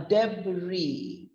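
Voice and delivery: debris said deb-ree, no final s; silent-s pronunciation. Shown as a demonstration. Teacher showing how it's pronounced, final s silent. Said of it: "it's pronounced as".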